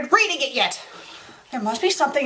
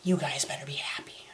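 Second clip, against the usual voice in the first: soft whisper, lower; whispered warning; 13 semitones lower, 11 dB quieter than usual. Acted. Critic grudgingly warning viewers, whispered threat. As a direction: threaten them quietly.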